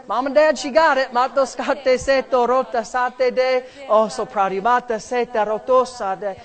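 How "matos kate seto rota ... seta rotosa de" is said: fervent glossolalia prayer; praying in tongues. Real, not acted. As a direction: pour out the syllables fervently.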